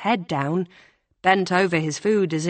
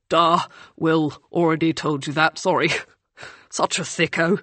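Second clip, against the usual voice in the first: laughing. Acted. Laughs at his own blunder.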